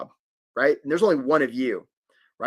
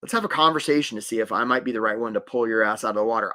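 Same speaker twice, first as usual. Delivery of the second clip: calm reassuring; 4 semitones lower than usual. Shown as a demonstration. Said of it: "The energy we wanna come with is".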